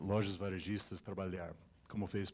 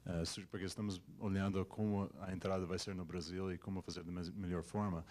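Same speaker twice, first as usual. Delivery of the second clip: Portuguese with an English accent; American speaker in careful learner Portuguese. Real, not acted. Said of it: "Desculpa o meu português".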